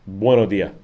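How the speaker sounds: "bueno dia", swallow the s sounds the local way; "bueno dia" said casually with no final s; clipped bueno dia. Shown as a demonstration. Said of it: "It's, um".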